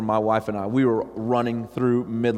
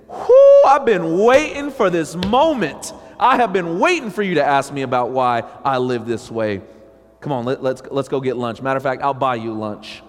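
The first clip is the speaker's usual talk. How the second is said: excited whoop; 5 dB louder than usual. Retold or imitated. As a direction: burst out with eager delight. Imagined eager believer answering.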